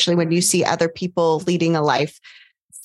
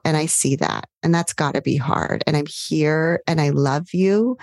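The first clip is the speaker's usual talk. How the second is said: soothing self-talk. Shown as a demonstration. Coach demonstrating tender self-talk to a struggling self. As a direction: comfort yourself like a loved one. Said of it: "something really endearing towards yourself".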